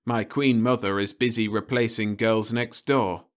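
lightly voiced, dutifully explaining; dutiful young man. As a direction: list them off politely. Roe lists his absent helpers.

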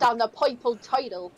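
put-on playful New York accent with "oi" vowels; hammed-up New York "oi" sounds; mock New York accent. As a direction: mimic an old-style New York accent. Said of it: "it's pronounced coffee".

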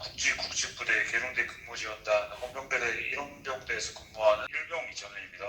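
crisp, formal soldier's self-report; korean military speech. Shown as a demonstration. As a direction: report your rank and name like a private on duty. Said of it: "관등성명".

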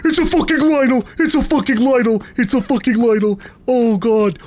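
fast, repeated panicked yelps. Real, not acted. Streamer fleeing a Lynel, rapid panicked repeats. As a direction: blurt it over and over in alarm.

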